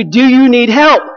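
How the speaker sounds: slow, mild mock yell; retold yell. Mechanic recalls offering help on the lake, slow mock yell. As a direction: imitate calling across water, each word drawn out. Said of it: "I was yelling at you".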